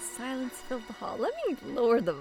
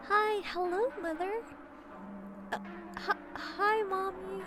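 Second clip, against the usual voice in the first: high, giddy hello; excited high greeting; 9 semitones higher than usual. Real, not acted. Excited greeting to Mother Matron.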